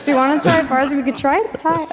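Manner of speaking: asking through a laugh. Real, not acted. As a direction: laugh while you ask it. Laughing at failed Farsi demo.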